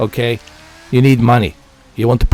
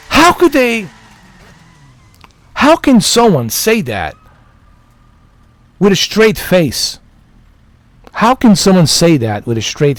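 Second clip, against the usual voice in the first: high-pitched exasperated disbelief; high, baffled outrage; incredulous; 4 semitones higher than usual. Real, not acted. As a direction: plead in real disbelief, with pauses. Incredulous at the company's statement.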